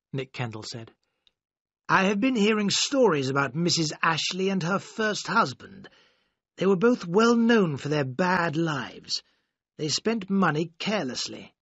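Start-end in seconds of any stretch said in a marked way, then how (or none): 1.9-11.5 a hint of a grave, higher-pitched older guardian; lightly voiced worried godfather delivering bad news; stern godfather. Godfather voiced in read story.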